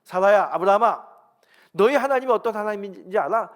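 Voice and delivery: loud, high, commanding call; preacher voicing God at full force; forceful divine address. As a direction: thunder it out as God confronting them. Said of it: "하나님 강력하게 말씀하십니다".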